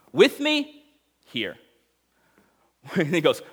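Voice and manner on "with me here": overacting Tom Cruise. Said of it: "Tom Cruise overacting".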